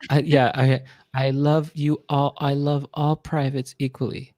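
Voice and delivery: slow, sweet declaration of love; mock Jackson. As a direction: tell every private you love them, drawn out. Jackson voice again.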